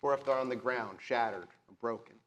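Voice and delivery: steady descriptive narration of the graveyard; game master scene setting. A narrator's reading. Game master setting the scene for the players, descriptive narration. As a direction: paint the eerie graveyard for the players.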